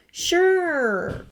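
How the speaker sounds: a light, offhand brush-off; dismissive. A narrator's reading. Sirius dismissing Severus, lightly voiced. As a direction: wave it away. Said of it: "Sirius said dismissively".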